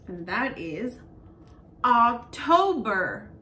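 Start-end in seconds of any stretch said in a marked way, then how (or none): 1.8-3.3 October drawn out, slow and loud; slow model word. Shown as a demonstration. Teacher models October slowly for children. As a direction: stretch October syllable by syllable. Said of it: "models month slowly".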